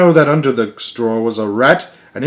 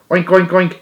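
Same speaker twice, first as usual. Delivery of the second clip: pig noises; 7 semitones higher, 3 dB louder than usual. Acted. Boy imitates pig.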